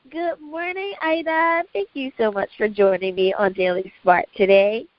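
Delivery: hoarse from allergies; raspy, scratchy throat. Real, not acted. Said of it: "Please excuse the raspy voice here".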